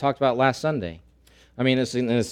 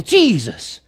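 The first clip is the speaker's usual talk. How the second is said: 1 mock scream; 6 semitones higher, 5 dB louder than usual. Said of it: "they just scream out that name".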